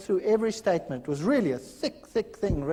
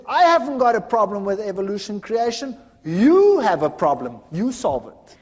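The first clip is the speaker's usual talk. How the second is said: frustrated; 6 dB louder than usual. Retold or imitated. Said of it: "he was so frustrated".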